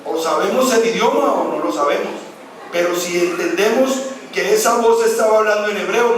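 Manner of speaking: ordinary talk, nothing marked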